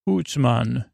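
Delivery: badly faked Scottish catchphrase; bad Scottish accent. Shown as a demonstration. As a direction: attempt a stock Scottish exclamation, badly. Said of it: "almost as bad as mine".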